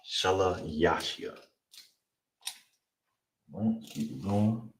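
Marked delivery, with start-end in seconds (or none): 0.1-1.4 shalayashya said slowly and softly; slow Hebrew model. Shown as a demonstration. Teacher repeats the word for third once more. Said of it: "so that's third".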